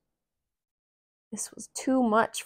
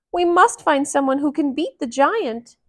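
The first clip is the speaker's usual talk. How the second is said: louder, higher call for help; mock yell; 7 semitones higher, 7 dB louder than usual. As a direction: call out to the crowd in mild alarm. Townsman yells.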